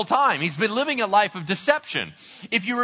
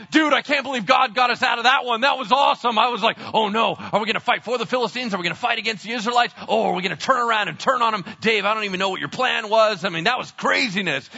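fast, raised, giddy buddy chatter; excited relief; faster than usual. Acted. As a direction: gush to your friends after a narrow escape. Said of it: "they're all excited".

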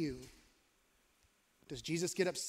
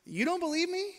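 gentle invitation. Retold or imitated. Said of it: "he just looks and says".

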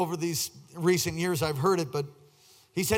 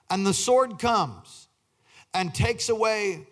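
declaimed scripture. Acted. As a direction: read the verse out phrase by phrase. Reads scripture aloud in preaching style.

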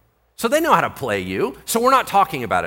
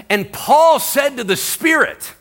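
slow, loud, higher preaching; preaching shout; 10 semitones higher, 5 dB louder than usual. Acted. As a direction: proclaim it to the room, slowly. Preacher building to climax.

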